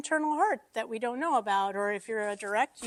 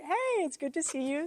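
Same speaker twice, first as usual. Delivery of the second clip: friendly greeting; 5 semitones higher than usual. Shown as a demonstration. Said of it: "So if I could just, like".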